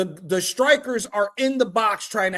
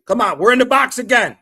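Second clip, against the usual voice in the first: excited shout; 5 semitones higher, 8 dB louder than usual. Real, not acted. Live match reaction, shouting.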